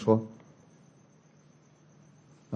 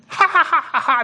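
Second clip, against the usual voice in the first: high mock guffaw; imitated group laughter; 11 semitones higher than usual. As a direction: imitate classmates roaring with laughter. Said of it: "每个人大笑". (模仿众人哈哈大笑)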